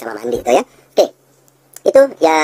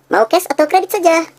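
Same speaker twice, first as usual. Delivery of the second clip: higher, slow, steering toward "kredit"; sales tune; slower than usual. Shown as a demonstration. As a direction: offer the choice smoothly. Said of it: "dengan intonasi seperti itu".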